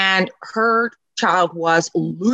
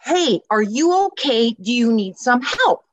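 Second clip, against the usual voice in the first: concerned offer; 4 semitones higher than usual. Retold or imitated. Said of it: "I said".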